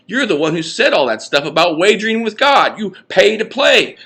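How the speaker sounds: high, fast-running alarmed lecture; agitated tirade. Acted. Duncan warning Parrish about mouthing off to God, high and agitated. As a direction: wind yourself up warning him. Duncan heatedly denies and warns.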